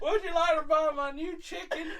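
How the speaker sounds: hammed-up Southern sales pitch; Colonel Sanders. Friend pitches chicken as the colonel, hammed-up Southern voice. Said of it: "he's basically Colonel Sanders".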